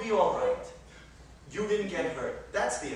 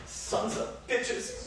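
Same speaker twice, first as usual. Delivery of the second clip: slow, much softer whisper; muttered curse; 9 dB quieter, much slower than usual. Acted. Husband cursing the thieves under his breath. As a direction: breathe it out slowly, nearly voiceless.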